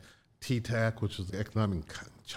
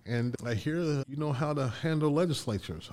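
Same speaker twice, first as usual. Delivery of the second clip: raised, put-on politician's voice; President Clinton; 6 semitones higher than usual. President sounding out a business leader, high imitated voice. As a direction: voice the president a good step higher. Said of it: "there's Bill Clinton".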